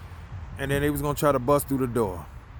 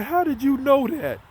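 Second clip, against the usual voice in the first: retold shock; 11 semitones higher, 4 dB louder than usual. Crying buddy reacts to revelation.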